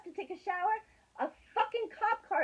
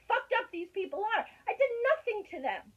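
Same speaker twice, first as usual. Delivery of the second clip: angry yelling. Real, not acted. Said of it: "I'm sorry to yell at you".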